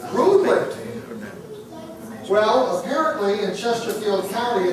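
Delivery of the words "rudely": "rudely" punched high and loud; "rudely" thrown out sharply, much higher and louder; stress on rudely. Retold or imitated. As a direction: land hard on "rudely" with a higher, louder push. Accusing the commissioner.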